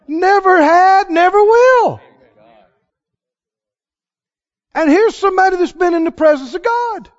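high, loud, laughing preacher's outcry; preaching at full force. Real, not acted. Preacher amazed at Moses' boast.

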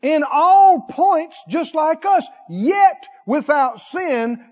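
fervent, slow preaching shout. Acted. Preacher lifting his voice to the congregation, fervent. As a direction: drive each phrase home to the church.

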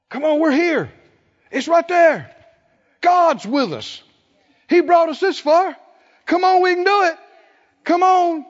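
coaxing, then rising to a pleading shout; encouraging plea building to a shout; building urging. Retold or imitated. Joshua and Caleb urging the people.

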